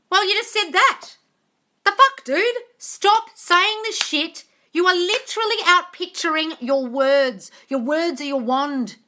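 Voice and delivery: high, loud, slow exasperated yell. Real, not acted. Scolding a viewer for negative self-talk, loud yelling. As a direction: scold the viewer to stop saying it. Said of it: "Sorry, I'm yelling at you, darling".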